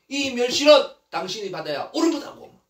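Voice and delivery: wronged wife scolding her husband; angry accusation. Acted. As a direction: hand the blame back indignantly. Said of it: "그러면서 막 화를 내지요".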